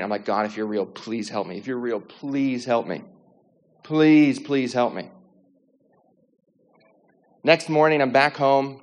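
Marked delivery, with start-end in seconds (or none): 0.3-5.1 understated retold plea to God; pleading prayer. Praying on the balcony in a panic, a restrained plea. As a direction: beg for help, leaning on each please. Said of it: "I just start praying".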